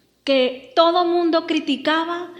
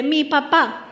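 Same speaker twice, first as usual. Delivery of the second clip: MI PAPÁ a touch firmer and louder; firm prompt for a louder repeat; slower than usual. Shown as a demonstration. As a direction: lead the crowd to say it stronger. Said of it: "Dilo más fuerte".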